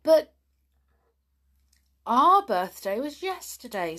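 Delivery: lightly puzzled pixie. Acted. Patter telling the postman, mildly puzzled. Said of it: "said Patter, puzzled".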